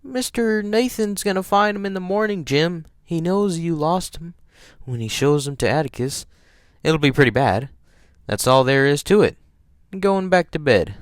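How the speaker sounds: put-on high-pitched child-character voice; high little-kid argument; reasoning, pleading child. A narrator's reading. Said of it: "I tried to reason with him".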